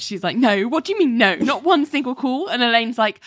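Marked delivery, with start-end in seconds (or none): 0.4-2.5 higher-pitched mock-snappish questioning; retold indignant snap. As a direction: imitate someone testily refusing to believe it. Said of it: "Ali gets snappish".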